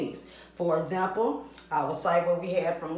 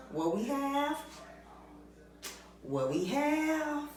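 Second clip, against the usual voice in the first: playful question; 8 semitones higher, 7 dB quieter than usual. Shown as a demonstration. Teacher teasing the next topic.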